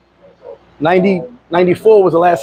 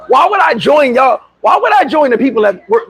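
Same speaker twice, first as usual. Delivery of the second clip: incredulous retort; 5 semitones higher than usual. Retold or imitated. Telling friends why he won't join, incredulous. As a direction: push back in raised, stretched-out disbelief.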